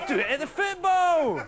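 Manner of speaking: high, loud Wookiee wail; Wookiee howl. Retold or imitated. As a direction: wail it out to your mates. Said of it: "turn around to your mates ... and go".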